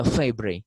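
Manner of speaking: "fibri" said FIE-bree, as spelt; misreading pronunciation. Shown as a demonstration. Teacher showing how non-native readers misread fibre, pronounced FIE-bree. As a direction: end "fibri" on -ree. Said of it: "it can be pronounced as fibri".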